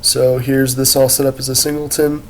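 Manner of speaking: congested, head-cold voice; stuffy nose. Real, not acted. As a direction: speak with a blocked nose. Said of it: "I got a cold".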